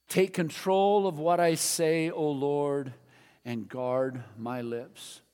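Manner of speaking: slow, projected congregational prayer; praying out loud. Real, not acted. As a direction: lead the room in prayer, easing down at the end. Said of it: "Let's pray this out loud together".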